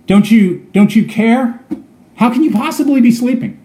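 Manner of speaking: mildly anxious, pleading prayer; pleading worry. Pretend. Believer pleading with Jesus, a touch anxious. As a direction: voice a worried believer's plea. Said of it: "that may be our question right now too".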